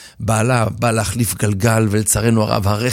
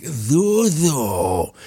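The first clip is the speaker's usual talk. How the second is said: determined Jacob; 3 dB quieter, much slower than usual. Acted. Jacob orders crowd.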